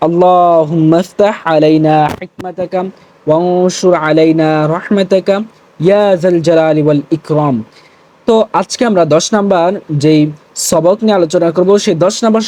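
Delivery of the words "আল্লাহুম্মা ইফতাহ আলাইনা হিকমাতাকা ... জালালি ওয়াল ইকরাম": devotional call-and-repeat recitation; recited prayer. Shown as a demonstration. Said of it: "সবাই আমার সাথে সাথে বলার চেষ্টা করুন".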